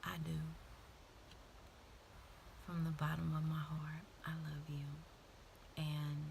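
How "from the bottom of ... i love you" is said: tender whisper. Real, not acted. Tender close to viewers.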